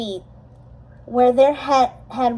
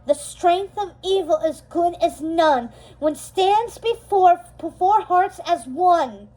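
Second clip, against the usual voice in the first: forceful incantation; 5 semitones higher than usual. Acted. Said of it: "with even more force".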